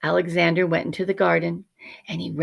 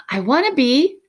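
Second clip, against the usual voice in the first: eager whisper; 8 semitones higher, 5 dB louder than usual. A narrator's reading. Alexander eager, breathless.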